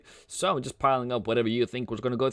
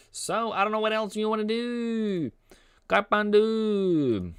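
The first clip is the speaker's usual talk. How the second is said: mock Asian accent, stretched sing-song line endings; playful Asian accent; 11 semitones higher than usual. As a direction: lilt it up high in a joking Asian accent. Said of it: "I don't know why I become Asian".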